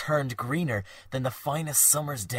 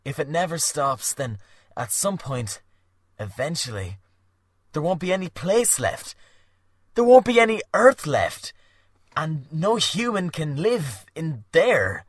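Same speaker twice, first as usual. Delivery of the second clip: rising despairing cry; 5 semitones higher, 7 dB louder than usual. Acted.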